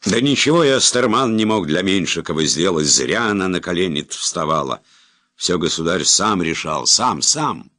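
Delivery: high, loud anguished outcry; shouting. Acted. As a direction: yell it out in despair. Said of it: "выкрикнул".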